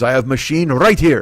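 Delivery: imitated proud old deli man. Deli owner showing his card machine, mildly proud. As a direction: show it off in the deli man's voice. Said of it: "He's all proud".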